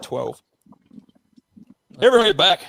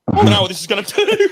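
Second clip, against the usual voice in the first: louder retold yell, mildly panicked; mock panicked yell; 5 semitones higher, 5 dB louder than usual. Telling mates how he answered the cop, mock panicked yell. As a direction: shout it like the fuse is burning. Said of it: "And I went".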